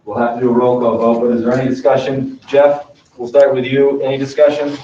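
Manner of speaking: talking while spinning in a swivel chair; spinning in office chair. Real, not acted. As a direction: voice swaying as the chair turns. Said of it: "I keep spinning in my chair".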